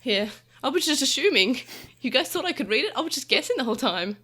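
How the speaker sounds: hammed-up comic excuse; acted sheepish confession. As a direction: play a character owning up to a bluff. Playing Taichi admitting he guessed.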